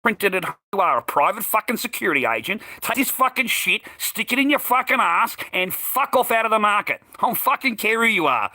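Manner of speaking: high, furious reenacted tirade; retold going off. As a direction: build into a heated dismissal. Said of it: "I went off my head".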